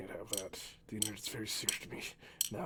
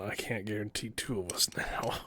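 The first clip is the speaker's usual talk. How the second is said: whisper; 8 dB louder than usual. Real, not acted. Whispered aside with laugh.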